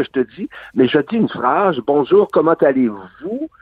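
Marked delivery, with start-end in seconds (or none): 1.9-3.5 demonstrated tonic accent landing on "vous"; stress on "vous". Shown as a demonstration. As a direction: lean on the final "vous". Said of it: "je vais appuyer sur mon vous".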